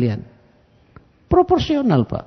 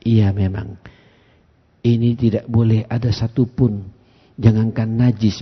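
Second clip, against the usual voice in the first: low, softened, unhurried correction; retold kindly admonition; gentle explaining; 5 semitones lower, 4 dB quieter, slower than usual. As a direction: correct him patiently and quietly. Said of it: "Lembutnya Rasulullah".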